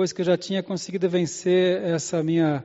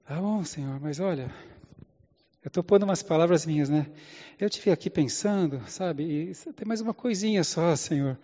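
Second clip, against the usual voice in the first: timid Moses; 5 dB quieter than usual. Acted. Moses timidly adds excuses.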